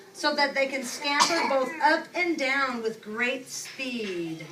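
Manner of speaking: slow, drawn-out storybook reading; unhurried picture-book voice; reading to children. Acted. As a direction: read it slowly to the class. Teacher reads picture book aloud.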